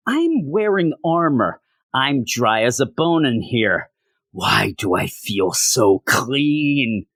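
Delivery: a hint of a smug hero savoring his suit; Tony in armor.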